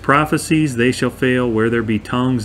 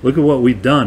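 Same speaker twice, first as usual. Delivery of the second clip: imitated insistent pleading; acting out claimants pushing their credentials; emphatic. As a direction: press your case, mildly emphatic. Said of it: "They're emphatic".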